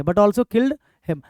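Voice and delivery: very slow, word by word; slow dictating teacher voice; slow dictation. Shown as a demonstration. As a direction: spell it out slowly as you write it on the board. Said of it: "ऐसे कर देंगे".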